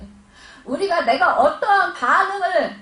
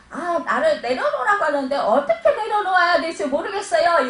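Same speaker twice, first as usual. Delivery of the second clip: quoting confused believers; 4 semitones higher, 4 dB louder than usual. Retold or imitated. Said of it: "이래요".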